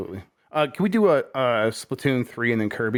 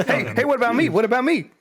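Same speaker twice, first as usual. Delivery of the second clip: high pleading voice through laughter; whiny little egg; 12 semitones higher, 3 dB louder than usual. Retold or imitated. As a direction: beg to be noticed, laughing. Voicing the small egg character.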